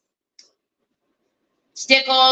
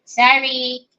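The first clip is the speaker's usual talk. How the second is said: usual speaking voice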